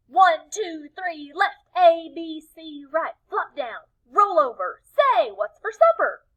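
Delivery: high, loud goofy cheer; Tacky giving the crowd his silly cheer; rowdy cheer. Acted. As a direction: ham it up with glee.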